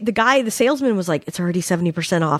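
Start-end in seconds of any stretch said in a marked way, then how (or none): 1.3-2.4 very low muttering under the breath. Retelling what the salesman said to her: imitating muttering under breath. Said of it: "to her under his breath".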